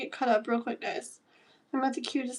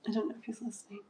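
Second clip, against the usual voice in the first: softer, half-voiced repeat; half whisper; 9 dB quieter, much faster than usual. Real, not acted. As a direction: keep it down.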